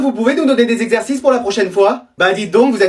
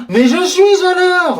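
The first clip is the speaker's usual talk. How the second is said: slow indignant protest; 8 semitones higher, much slower than usual. Acted. Friend late, insists on time.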